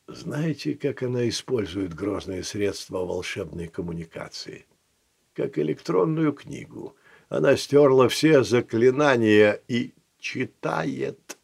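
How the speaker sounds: telling tales. Acted. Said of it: "наябедничал Тибальт".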